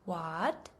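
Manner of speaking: "what?" rising like a confused question; "what?" pitched upward in surprise; rising second tone. Shown as a demonstration. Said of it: "The second tone is rising".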